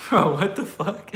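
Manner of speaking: high, loud burst through laughter; shocked, laughing outburst; real laughing disbelief. Real, not acted. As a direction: crack up while blurting it out. Cracks up at chat message.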